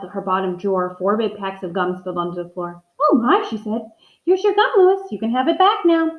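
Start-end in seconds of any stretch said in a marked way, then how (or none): 3.0-3.5 surprised. Acted. Teacher surprised by spilled gum. 4.2-6.1 amused teacher. Acted. Teacher returning gum to Lewis.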